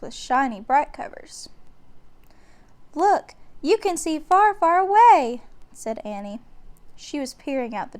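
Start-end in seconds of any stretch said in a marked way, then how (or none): 2.9-5.4 higher, louder, wonder growing; girl gazing out in awe; excited. A narrator's reading. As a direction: marvel at the view. Annie excited at window.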